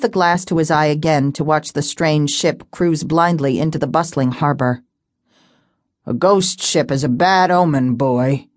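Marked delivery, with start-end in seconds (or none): 6.0-8.5 low grumbling warning; gruff old seaman. Acted. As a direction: warn the boy gravely. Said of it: "he muttered".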